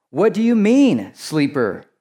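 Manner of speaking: high, loud rebuke of a sleeper; scolding ship captain. Acted. Ship captain waking Jonah, high and loud rebuke. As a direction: bark at him like a startled captain.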